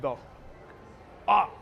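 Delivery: retold yell. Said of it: "I'm as loud as an explosion".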